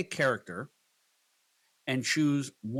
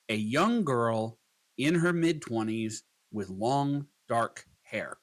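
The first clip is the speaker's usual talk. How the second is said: slow prompt dictation; slower than usual. Shown as a demonstration. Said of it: "We'll adjust the prompt to".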